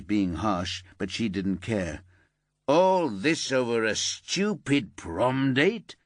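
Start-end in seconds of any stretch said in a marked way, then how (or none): 2.7-6.0 slow, disbelieving father; can't believe what he hears; incredulous. Acted. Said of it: "Her father was incredulous".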